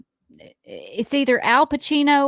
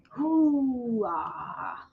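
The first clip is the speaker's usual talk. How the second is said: loud gung-ho soldier; 5 dB quieter than usual. Acted. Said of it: "Who says".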